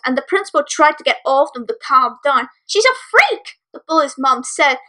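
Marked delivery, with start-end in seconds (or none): 2.7-3.6 sneering. A narrator's reading. Bully's mom insults filly.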